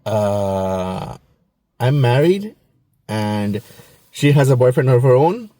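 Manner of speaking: low, hesitant doctor voice; doctor dodging grandma's matchmaking, low and awkward; awkward deflection. Retold or imitated. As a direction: fumble the excuse, low and uneasy. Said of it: "And I'm like".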